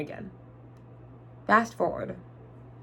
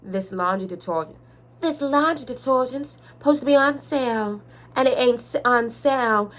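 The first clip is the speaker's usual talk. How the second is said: mean customer. Retold or imitated. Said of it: "now imagine the eyes".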